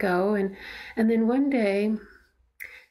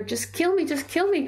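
retold desperate scream; 8 semitones higher than usual. Son in his mother's ear, retold desperate scream. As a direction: echo a child's frantic plea without shouting. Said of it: "he'd be screaming in my ear".

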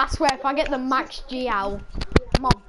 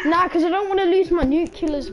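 raised, higher shout of protest; 5 semitones higher than usual. Real, not acted. Protesting loudly in game.

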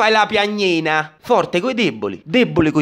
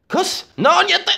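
meek backing down; 11 semitones higher, much slower than usual. Acted. Ned backing down, whining.

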